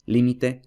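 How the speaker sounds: límite with a clear push on the first syllable, lí; stress shown. Shown as a demonstration. Teacher contrasting stress positions, stressing lí. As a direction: lean into lí in límite. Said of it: "como lo que he dicho antes".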